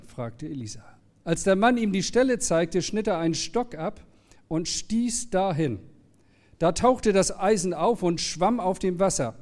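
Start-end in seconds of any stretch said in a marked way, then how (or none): 1.2-9.3 clear, measured scripture reading; lightly raised storyteller's delivery; story reading. A narrator's reading. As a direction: read the Bible story aloud to the congregation. Reads the Bible story aloud.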